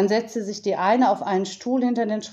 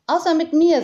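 quoting the raven; 9 semitones higher, 6 dB louder than usual. Retold or imitated. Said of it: "sage ich dann immer".

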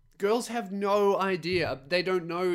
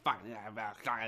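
low, much softer mock grunting of fuck; imitating the creepy dude; 6 semitones lower, 8 dB quieter than usual. Mocking the homeless guy humping the air, low grunting mutter. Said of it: "this dude is like".

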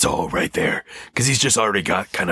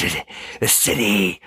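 throaty growl, jaw pushed out; Christian Bale's Batman. Shown as a demonstration. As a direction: bottom teeth out, growl it. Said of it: "push your bottom teeth out".

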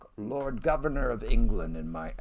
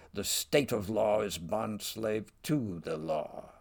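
dramatic Shakespeare reading. Acted. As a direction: declaim Gaunt's rebuke to the king. Reads Gaunt's rebuke aloud.

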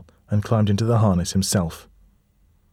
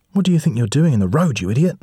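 raised, higher, scolding the stranger; indignant shout; 6 semitones higher, 4 dB louder than usual. Acted. Felix yelling at the figure after nearly crashing, indignant. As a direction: tell off the idiot blocking the road.

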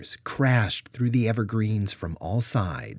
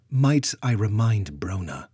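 clipped, stern and louder; percussive sternness; 2 semitones higher, 6 dB louder than usual. Acted. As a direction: rap each word out sternly. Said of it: "with percussive sternness".

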